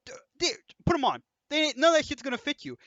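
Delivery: blurting it out in disbelief; exasperated retold protest. To the roommate wearing his clothes, high exasperated protest.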